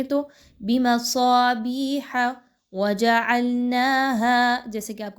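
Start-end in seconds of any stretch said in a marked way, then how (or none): 0.6-4.6 recitation. Shown as a demonstration. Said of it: "اگر آپ اس آواز کی پریکٹس کریں".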